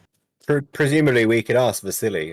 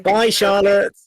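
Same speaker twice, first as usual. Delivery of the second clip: high squeaky goodbye; 14 semitones higher, 6 dB louder, much slower than usual. Acted. Cheerful farewell to NPC.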